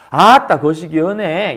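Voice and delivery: a hint of a Jeolla drawl; Jeolla dialect. Teacher giving an example of Jeolla dialect, lightly mocked. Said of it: "이런 전라도 사투리라든지".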